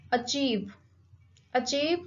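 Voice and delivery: "achieve" with CHIEVE stressed; light A, strong CHIEVE in "achieve"; teacher's model "achieve", weight on the second syllable. Shown as a demonstration. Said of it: "the stress is on the second syllable".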